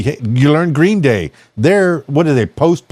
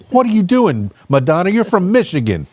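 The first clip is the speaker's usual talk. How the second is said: mock exasperated; 5 semitones higher than usual. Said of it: "And I was like".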